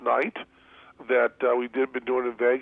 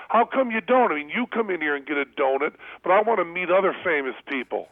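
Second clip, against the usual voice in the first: imitating excited fan; 5 semitones higher than usual. Counter girl to the comedian: high excited mock plea. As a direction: play the starstruck girl begging for celebrities.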